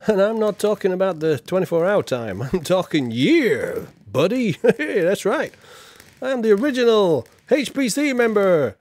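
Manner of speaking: put-on loud brash American-accented Guy Fawkes; mock American accent, Guy Fawkes boasting to chat. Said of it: "Why am I doing an American accent for Guy Fawkes?".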